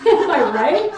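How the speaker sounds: excited, slow "Am I right?"; drawn-out crowd-pleaser; hammed-up. Hammy crowd-pleasing question.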